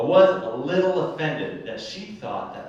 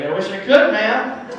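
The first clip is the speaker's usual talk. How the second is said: put-on white boy voice; 5 semitones higher, 5 dB louder than usual. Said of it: "that stupid white boy voice".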